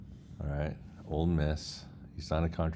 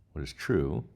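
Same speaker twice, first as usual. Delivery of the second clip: ordinary delivery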